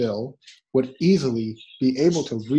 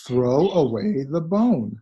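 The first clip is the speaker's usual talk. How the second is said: slow and clear for learners. Shown as a demonstration. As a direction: read it out slowly, word by word. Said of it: "slow teaching take".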